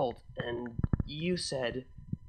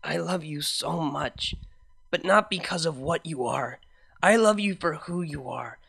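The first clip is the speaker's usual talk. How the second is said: lightly voiced mare, loving and earnest; gentle heartfelt vow to a partner; Vinyl, tender; 2 semitones higher, 4 dB louder than usual. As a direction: reassure her with full devotion.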